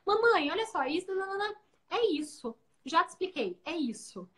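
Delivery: mock a child lecturing his mom; imitating her son. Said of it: "O Eduardo começou com um negócio assim".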